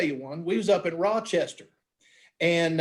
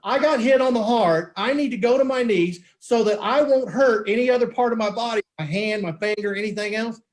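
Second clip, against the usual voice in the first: higher-pitched, amazed retelling; incredulous disbelief; 4 semitones higher than usual. Retold or imitated. Uncle Mike to the hit pitcher, incredulous. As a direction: question it in astonished disbelief.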